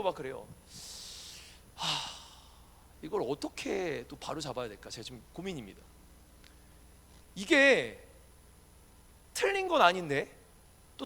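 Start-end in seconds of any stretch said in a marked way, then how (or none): none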